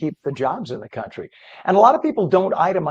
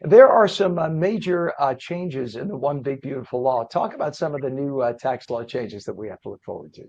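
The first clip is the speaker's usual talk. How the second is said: frog voice. Real, not acted. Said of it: "frog voice that I have today".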